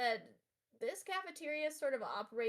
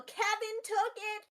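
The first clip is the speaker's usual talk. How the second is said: rising, high outburst; wailed loud complaint; aggrieved yell; 10 semitones higher, 8 dB louder, slower than usual. Acted. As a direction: pointedly raise the voice to accuse. Upset girl calls out Kevin again.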